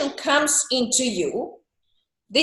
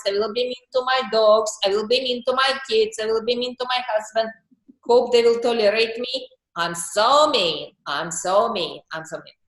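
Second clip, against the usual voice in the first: mock mean self; 2 semitones lower than usual. Shown as a demonstration. Coach acts out letting the mean side speak, playful mock menace. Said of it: "you talk like this".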